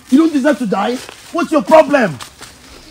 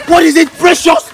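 exasperated shout; 2 semitones higher, 5 dB louder than usual. Acted. Angry confrontation over suicide.

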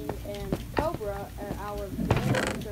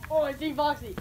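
high, loud cry of alarm; 6 semitones higher, 8 dB louder than usual. Pretend. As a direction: sound the alarm at a monster. Spots the monster in game.

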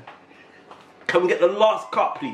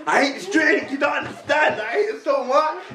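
upset crying; 8 semitones higher than usual. Real, not acted. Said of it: "He's crying".

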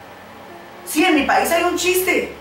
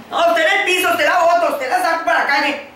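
mock scolding wife; 4 semitones higher, faster than usual. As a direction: brush him off to the floor. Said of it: "dice la señora".

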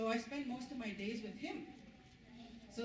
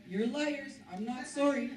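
defiant shout; 3 semitones higher, 7 dB louder than usual. Retold or imitated. Child defies principal while strapped.

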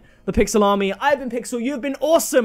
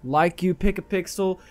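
put-on Linkuru accent; 3 dB quieter than usual. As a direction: grumble in a badly attempted, Australian-like accent. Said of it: "I still don't get this accent".

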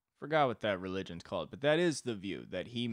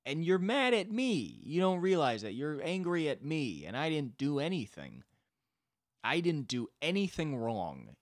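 mad, wounded God; 6 semitones higher than usual. Acted. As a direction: protest your innocence, stretching the words. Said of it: "I think God might be mad".

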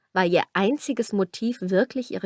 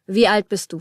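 gruff; 4 dB louder than usual. Acted. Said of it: "fragte er barsch".

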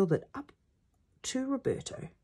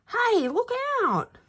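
high, loud, drawn-out warning; warning shout; 5 dB louder than usual. Acted. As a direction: call out a warning across the pitch. Warning shouted during practice.

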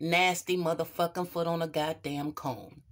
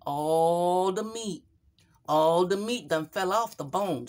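emphatic; 5 dB louder than usual. Acted. Showing the rotten foot.

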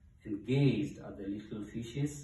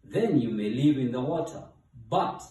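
loud, commanding god voice; booming storybook decree; thundering god; 7 dB louder than usual. A narrator's reading. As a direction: lay down the rule loudly. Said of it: "thundered the voice of Guy".

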